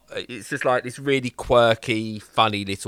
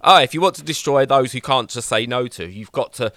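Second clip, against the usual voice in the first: lightly voiced pumped-up motivator; a hint of self-help guru; over-the-top fitness guru; 2 semitones higher, 3 dB louder than usual. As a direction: coach them with mock positivity. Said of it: "big muscles and over the top positiveness".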